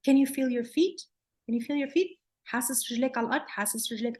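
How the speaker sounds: gentle grounding voice. Shown as a demonstration. Therapist grounding a frozen child gently. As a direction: coax the child to feel their feet. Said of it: "or I can say something like".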